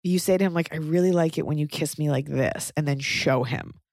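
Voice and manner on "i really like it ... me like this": calm and gentle. Pretend. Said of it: "like, very calmly".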